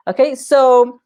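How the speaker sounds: a little winded; slightly breathless; out of breath. Real, not acted. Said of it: "let me catch my breath".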